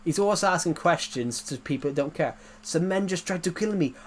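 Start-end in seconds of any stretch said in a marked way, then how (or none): 2.6-3.9 lightly voiced action-hero impression, higher pitch; a hint of Austrian action hero; Arnold Schwarzenegger. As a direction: complain like an accented action star. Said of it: "When I try and do a Terminator voice".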